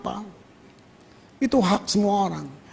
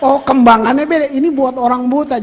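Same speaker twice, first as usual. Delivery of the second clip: louder, sudden understanding; surprised realization; 3 semitones higher, 7 dB louder than usual. Retold or imitated. Preacher realizing the tiles guide the blind, louder and surprised. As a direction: let the discovery land.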